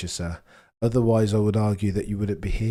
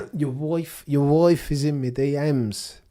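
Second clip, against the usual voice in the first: lightly voiced Jamaican accent, louder and slow; mock Jamaican accent; 6 semitones higher, 4 dB louder, slower than usual. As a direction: have another go at the Jamaican line. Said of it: "I can't even do the accent".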